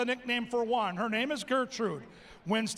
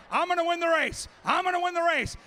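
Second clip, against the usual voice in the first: taunting dog voice; 4 semitones higher, faster than usual. Retold or imitated. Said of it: "He's taunting, he's saying".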